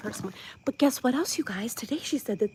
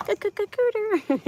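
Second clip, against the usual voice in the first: the word cooter stuttered then said out louder and higher; bold stammer; 11 semitones higher, 3 dB louder than usual. Real, not acted. Daring to say the rude word out loud to viewers. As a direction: commit to c-, c-, c-, cooter with a cheeky punch. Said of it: "I don't know if I'm allowed to say that".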